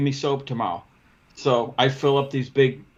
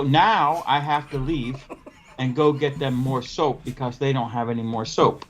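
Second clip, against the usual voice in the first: laughing through it. Retold or imitated. Retelling absurd soap mix-up.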